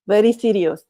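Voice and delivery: put-on short, firm, joking Russian accent; mock Russian accent. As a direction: ham up a Russian accent for the joke. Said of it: "Sometimes I like to use a Russian accent".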